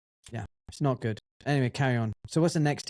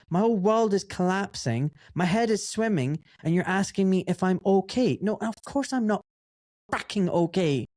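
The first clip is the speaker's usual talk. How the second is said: emphatic, higher-pitched tirade; exasperated rant in a raised pitch; retold indignant outburst; 5 semitones higher than usual. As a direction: re-enact overwhelmed disbelief, point after point. Retold outburst at being suspended.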